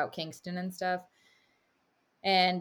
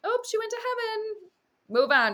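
much higher, breezy brush-off; mock parent waving grief away, louder on move on; dismissive old-school parent; 4 dB louder than usual. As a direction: toss it off like a parent closing the subject. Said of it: "It was more like".

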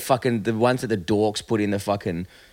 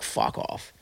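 whispered; 11 dB quieter than usual. Retold or imitated. Retold reply to missus, unvoiced.

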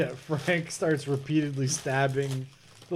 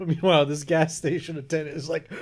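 laughing; much faster than usual. Real, not acted. Laughing while retelling.

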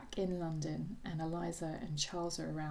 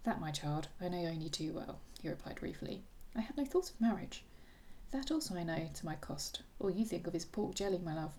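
reading a novel aloud with light character voices; lively book reading with hinted voices; story reading. A narrator's reading. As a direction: read the final chapter to a friend. Reads the novel's ending aloud.

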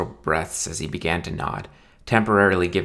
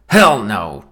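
put-on drunken shout; 6 dB louder than usual. Drunk groom refusing outright.

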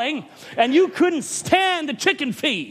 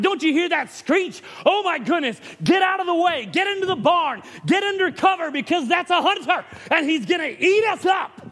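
mock chicken panic; 5 semitones higher than usual. Panicked chickens fleeing the hunter.

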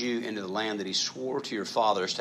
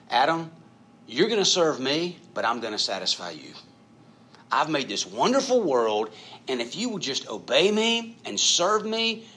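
raised, eager voice of God making a promise; voicing God to Adam; 2 semitones higher than usual. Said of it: "the conditions of the covenant that God made with Adam".

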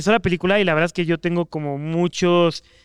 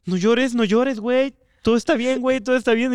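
mild self-soothing; 5 semitones higher than usual. Retold or imitated. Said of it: "me estaba así haciendo".

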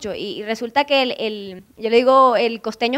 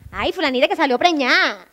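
imitated gossiping relatives; 3 semitones higher than usual. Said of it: "empezamos a echar un cuento más bueno de un chisme".

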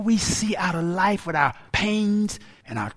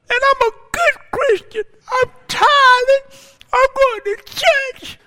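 much higher, louder, tearful wail; whining cry; 4 dB louder than usual. Retold or imitated. Begging God why bad things happen on Friday, high loud crying wail. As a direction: wail at God like a wronged child. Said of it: "That's the way I was sounding".

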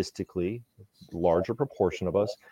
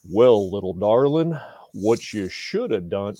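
condescending husband; 4 dB louder than usual. Retold or imitated. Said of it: "don't ever use that voice that Doctor Dan just".

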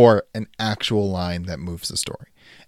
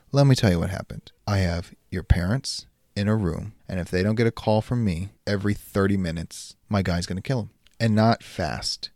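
calm, gloating supervillain monologue; villain speech. Acted. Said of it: "you are giving your greatest villain speech".

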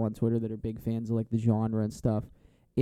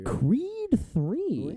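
hammed-up news anchor, much higher; exaggerated news anchor; 11 semitones higher, 3 dB quieter than usual. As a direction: overdo the anchorman announcement. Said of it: "news anchor".

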